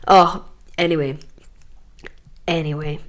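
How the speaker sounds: breathy voiceless anyway; whispered anyway. Real, not acted. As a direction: let it go in a whisper. Dropping the topic.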